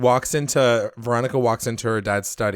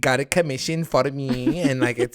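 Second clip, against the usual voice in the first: lightly imitated Spanish accent; bad Latina accent. Hermosa explains the painting to Veronica, bad Latina accent. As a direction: put on a rough, wobbly Latina accent. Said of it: "I'm doing this accent so wrong".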